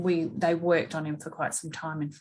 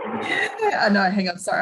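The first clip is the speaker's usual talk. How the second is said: teary; 3 semitones higher, 5 dB louder than usual. Real, not acted. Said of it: "I almost feel like we need a break here".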